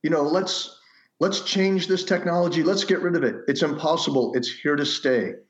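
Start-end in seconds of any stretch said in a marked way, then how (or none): 0.0-3.4 mock preaching. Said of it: "you don't hear me preaching, going".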